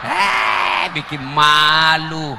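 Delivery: hammed-up outrage; mock shout. Real, not acted. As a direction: shame them loudly. Mocking men's weak chant.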